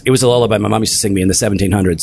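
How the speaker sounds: laughing. Real, not acted. Joke said laughing.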